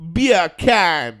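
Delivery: loud, badly done British accent; British attempt sounding like Jamaican. Shown as a demonstration. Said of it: "Okay, with a British accent?".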